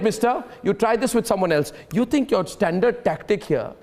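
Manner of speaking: deliberate dressing-down. Real, not acted. Host exposing the guest's debate tactic, deliberate dressing-down.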